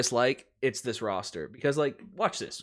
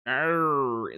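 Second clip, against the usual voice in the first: drawn-out "arr" as bad Australian; badly faked Australian sound; half-hearted stab at Australian; attempted Australian accent. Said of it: "that's as close as I get".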